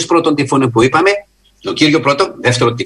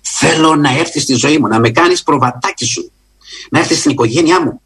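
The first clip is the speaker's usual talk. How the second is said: much higher, earnest pleading prayer voice; preacher models a heartfelt plea for the listener; fervent sample prayer; 4 semitones higher than usual. Shown as a demonstration. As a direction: cry out to God for forgiveness, then settle. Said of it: "Να πεις".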